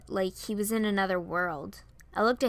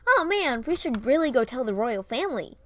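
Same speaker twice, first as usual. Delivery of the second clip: higher, louder, hopeful push; eager urging; 4 semitones higher, 6 dB louder than usual. A narrator's reading. Varian hopes Piper will tell the royals, eager. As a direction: urge it with a raised, keen voice. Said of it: "He looked hopeful".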